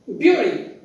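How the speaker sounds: "bury" said as spelt, BYOO-ree; wrong pronunciation. Shown as a demonstration. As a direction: say "bury" with a "byu" start. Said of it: "That's the wrong pronunciation".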